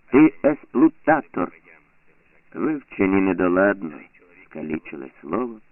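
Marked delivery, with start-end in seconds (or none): 0.1-1.5 put-on high, loud, slow child's slogan; shouted accusation. A narrator's reading. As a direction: hurl the word at him. Pioneers shouting slogan at neighbour.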